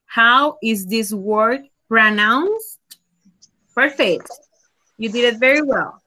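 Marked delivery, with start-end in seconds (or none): 0.0-2.8 deliberate and clear; teacher repeating the student's answer; slow model question. Shown as a demonstration. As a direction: model it slowly. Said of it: "Very good".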